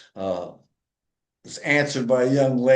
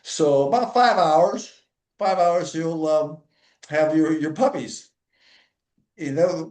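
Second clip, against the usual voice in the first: eager receptionist; 3 semitones higher than usual. Retold or imitated. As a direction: play the chirpy young lady taking the call. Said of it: "He says".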